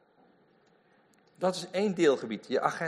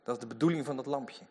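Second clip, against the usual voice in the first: ordinary delivery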